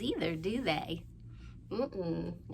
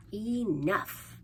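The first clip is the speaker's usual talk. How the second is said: villagers' exclamation; 4 dB louder than usual. Acted. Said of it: "they said".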